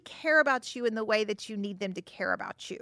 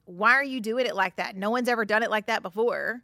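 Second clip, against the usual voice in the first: mildly accusatory, quick-running complaint; lightly voiced nagging criticism; hateful criticism; 3 dB louder than usual. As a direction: act out a critical partner's reproach. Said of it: "saying it in a hateful way".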